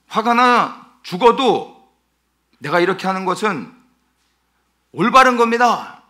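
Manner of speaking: loud, high, stubborn talking back; defiant retort. Retold or imitated. Jonah talking back to God, loud defiant shout. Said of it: "아주 작정하고 하나님 앞에 대듭니다".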